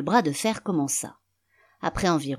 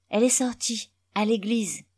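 put-on higher small boy voice; little boy; 6 semitones higher than usual. A narrator's reading. Son telling father where mother went, high child voice. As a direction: answer as a young child, pitched up. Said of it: "Un petit garçon accourut".

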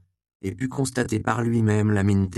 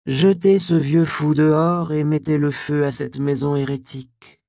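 loud, higher-pitched inquisitor's command; commanding order; 8 semitones higher, 7 dB louder than usual. A narrator's reading. Inquisitor ordering his jailers to burn the house, loud command. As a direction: order it out forcefully. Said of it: "ordonna à ses geôliers".

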